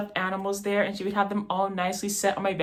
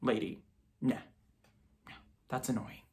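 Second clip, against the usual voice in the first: embarrassed whine; 7 semitones lower, 10 dB quieter than usual. Retold or imitated. Son begging mom to stop embarrassing him, softly. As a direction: beg her quietly to stop.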